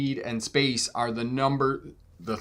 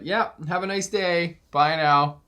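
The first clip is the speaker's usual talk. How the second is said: lilting, overly sweet brush-off, higher; sugary fake friendliness; 4 semitones higher than usual. To an aggressive driver, a fake-sweet goodbye. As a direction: kill them with kindness, sweetly.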